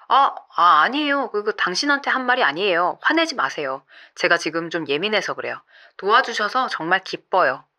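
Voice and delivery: mildly placating, as if smoothing things over; suddenly softened, retold. Runner backpedals to his sponsor after shouting, suddenly gentle. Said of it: "갑자기 목소리와 말투가 부드러워졌대요".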